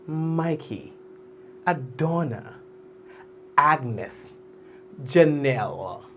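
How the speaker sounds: Mikey, Adonna, Agnes, Janelle each savoured alone, falling at the end; said with meaning. Shown as a demonstration. Host models names with finesse, with meaning. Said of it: "Say it with meaning".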